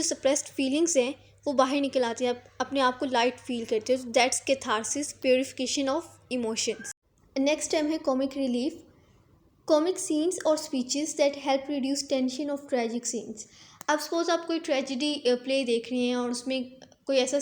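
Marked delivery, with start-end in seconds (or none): 4.1-6.9 very slow, word by word definition; slow dictation. Shown as a demonstration. Reading out a definition slowly. 9.7-13.4 very slow, evenly spaced definition; slow dictation. Shown as a demonstration. Reading out a definition slowly.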